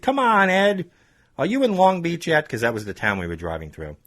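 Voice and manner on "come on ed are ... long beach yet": higher, louder mock-familiar ribbing; teasing. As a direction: act like his buddy to needle him. Caller teases the driver.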